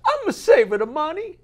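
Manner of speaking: high, loud, slow Italian broken English; Italian daughter accent. Acted. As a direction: ask slowly in a hammy Italian accent. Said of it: "she says".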